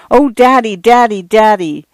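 put-on a little girl flinging her arms round her dad; excited child cry. A narrator's reading.

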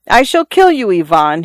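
put-on trapped boy threatening his captor, crying out. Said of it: "he cried out".

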